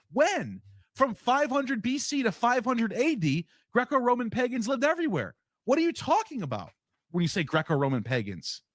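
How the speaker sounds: exasperated rant. Real, not acted. Ranting at a rookie scholar on video, exasperated and incredulous. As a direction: push back hard, can't believe the vagueness.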